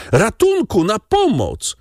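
narrated woman's scream, held back in volume; cry for help. A narrator's reading. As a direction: call for rescue in a high, alarmed voice. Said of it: "krzyknęła panna Darmilly".

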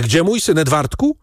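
restrained cry of alarm; sudden cry. A narrator's reading. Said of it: "krzyknął nagle".

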